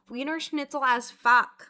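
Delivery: loud, slow hammed-up German; mock German accent. Joking about being German, hammed-up German accent. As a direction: ham up Wiener Schnitzel in a fake German accent.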